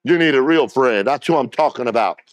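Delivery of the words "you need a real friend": preaching shout. Acted. Repeated line, louder.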